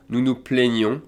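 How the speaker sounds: "plaignons" with a closed é in the first syllable; accent aigu demonstration. Shown as a demonstration. Teacher conjugating se plaindre, closed accent aigu sound. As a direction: sound out "plaignons" as play-nyon. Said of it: "sounds like an E accent aigu".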